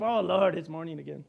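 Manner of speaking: mock whiner dreading the morning; groaning complaint. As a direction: moan it like waking is a burden. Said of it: "there's others".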